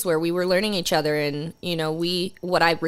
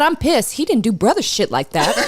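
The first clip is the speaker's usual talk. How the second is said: mock angry; 5 semitones higher, 5 dB louder than usual. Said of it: "She said".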